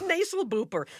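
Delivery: "Nasal booper" said through a laugh, reversed; backwards speech. Shown as a demonstration. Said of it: "I'll just say it backwards".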